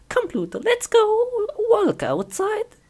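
high sing-song call to a pet; calling the dog. Acted.

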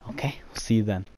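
whispered sign-off. Real, not acted. Host whispers the sign-off to viewers, no voice. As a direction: breathe it out, no voice.

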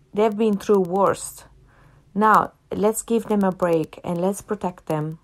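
ordinary delivery

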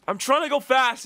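high, loud enraged yelling; real gamer rage; furious shout. Real, not acted. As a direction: scream at the slow player. Rage at teammate while gaming.

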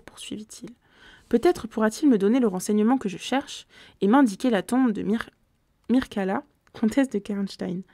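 steady, measured reading of a gothic novel; story narration. A narrator's reading. Reader narrating a gothic tale to listeners, measured narration. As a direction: read it like an audiobook narrator.

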